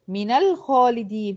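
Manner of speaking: slow "من الخالدين" as mina-lkhalidin; measured tajweed example, "من الخالدين" joined by a; demonstrating the fatha link. Shown as a demonstration. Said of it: "هحركها بالفتح".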